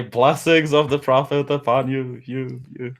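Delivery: mock booming proclamation, echo dying away; very loud voice. Player hailing the sleeping old man, mock booming with fading echo. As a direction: proclaim it, then fade on the repeated last word. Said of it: "and with a very loud voice".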